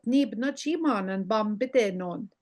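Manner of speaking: "ni bna chimanen bambidenon" run together without breaks; fast talker's version. Shown as a demonstration. Teacher showing a fast talker's "ni bna chimanen bambidenon", run together. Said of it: "if you were a fast talker".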